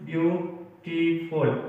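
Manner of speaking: ब्यूटीफुल stretched slowly into its three syllables; ब्यूटीफुल said slowly with falling tune, each syllable separate; slow syllable demo. Shown as a demonstration. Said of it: "ये three syllabic word हैं".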